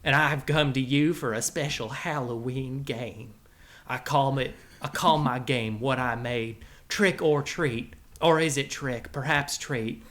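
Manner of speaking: put-on folksy cowboy drawl accent; cowboy character accent. The Rattler presenting his Halloween game to the boys, cowboy accent. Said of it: "where'd you find that accent from?".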